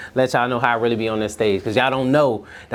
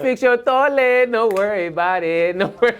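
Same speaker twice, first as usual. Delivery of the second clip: character voice; 7 semitones higher than usual. Acted. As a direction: play a cheerful handyman promising anything. Comedian's character voice bit.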